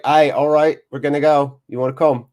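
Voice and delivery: upbeat, mock Australian surfer accent; badly faked Australian, casually inviting a mate; horrible Australian accent. Surfers inviting a sleepy friend along, mock Australian accent. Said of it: "That's my horrible Australian accent".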